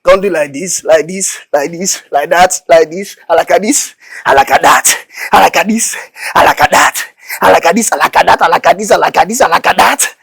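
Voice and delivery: loud rhythmic calls on the beat; energetic dance coaching. Acted. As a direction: drive the dancer on with chanted cues. Coaching street dance moves.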